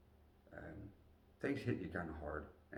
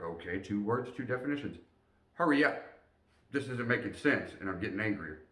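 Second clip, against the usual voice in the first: frustrated inner voice; 3 semitones higher, 5 dB louder than usual. Retold or imitated. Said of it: "my logical mind was like".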